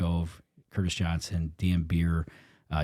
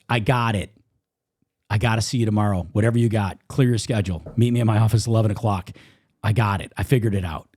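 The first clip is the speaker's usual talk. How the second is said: insistent, louder retold phone call; retold urgent excitement; 3 semitones higher, 5 dB louder than usual. Business friend calls with a breakthrough, urgent and excited. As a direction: fire off urgent orders down the phone.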